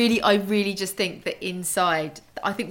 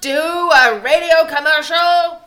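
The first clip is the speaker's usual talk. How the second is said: loud, slow hammed-up shout; mock shout; 9 semitones higher, 13 dB louder, slower than usual. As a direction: bellow it like a ham actor. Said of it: "That's what he shouts".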